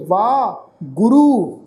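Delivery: ਵਾਹ as a long "vaa", then ਗੁਰੂ apart; ਵਾਹ, a pause, ਗੁਰੂ with a long final u; correct pronunciation. Shown as a demonstration. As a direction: split ਵਾਹ and ਗੁਰੂ, no i after the h. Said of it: "ਪਰ ਇੱਥੇ ਪਾਠ ਉਚਾਰਨ ਕਰਾਂਗੇ".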